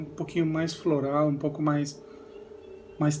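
speaking while sniffing drink; talking into a glass. Real, not acted. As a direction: voice muffled by glass rim. Seen 0: Glass rim covers nose and mouth while speaking, lowered by 2.1.

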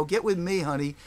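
a hint of a flirty caller coaxing him; mock seductive woman. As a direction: caller from Philly luring him away from his records. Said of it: "she's a hooker".

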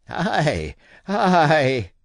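a grunt of relief after the rum; contented sea dog; relieved old captain. A narrator's reading.

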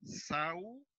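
SAUMERIO split slowly, "sau" kept as one beat; careful syllable division of "saumerio". Shown as a demonstration. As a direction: say "saumerio" in drawn-out syllables with long gaps. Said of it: "cuando se pare, debo unir ambas".

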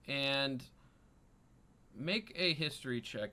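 usual speaking voice

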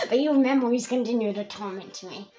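put-on villain lines in a loose Russian-like accent; hammed-up, vaguely Russian accent. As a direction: give him a mock Russian or German accent. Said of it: "I'm giving him an accent".

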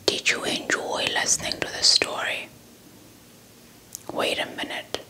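ordinary delivery, nothing marked

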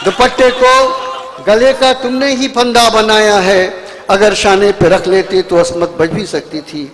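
slow, measured verse with falling close; lingering couplet delivery; poetry recitation. Acted. Poet recites ghazal couplets.

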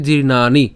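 জীর্ণানি ending in "naa-ni", no "yo"; teacher modelling জীর্ণানি; alternative pronunciation demo. Shown as a demonstration. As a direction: say জীর্ণানি with long "naa", short "ni". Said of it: "উচ্চারণ করতে পারি".

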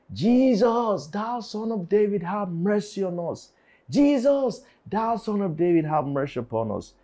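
high-pitched mock cry for mercy, easing at the end; imitated screaming plea. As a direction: call out like lepers begging from afar. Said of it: "they were screaming at the top of their voice".

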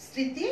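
স্মৃতি said as সৃঁতি, the ম silent, the first sound nasal. Shown as a demonstration. Teacher demonstrating স্মৃতি with a nasal সৃঁ. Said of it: "একটু আনুনাসিক উচ্চারণ করব".

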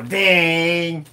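one drawn-out chiming "ding"; imitated ding. Host imitating everybody down the street, one chimed ding. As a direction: ring out a single ding. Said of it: "Everybody down the street go".

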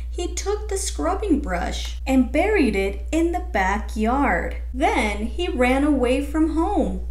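gentle storybook reading voice; picture book read aloud; reading to children. Acted. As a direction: read the story to young kids.

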